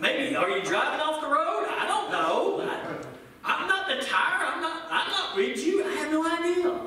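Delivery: teasing the friend who asked; laughing brush-off. Retold or imitated. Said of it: "I said".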